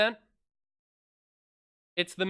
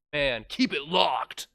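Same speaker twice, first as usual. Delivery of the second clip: catchphrase; 3 semitones lower, slower than usual. Pretend. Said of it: "use that soundbite".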